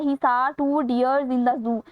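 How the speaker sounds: reading the sentence out very slowly. Shown as a demonstration. Teacher reading a quiz item to students, very slow. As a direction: spell the question out word by word.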